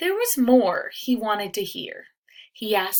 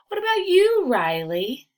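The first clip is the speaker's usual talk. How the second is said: higher, louder call for attention; teacher calling class; 9 semitones higher, 7 dB louder than usual. Acted. Mister Brew calling his class to attention, raised teacher voice. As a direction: get the class listening.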